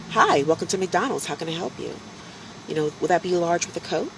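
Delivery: light, polite recorded-greeting lilt; imitating his own pre-recorded drive-thru voice. At the drive-thru, he greets customers in a polite recorded voice. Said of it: "that's how I spoke".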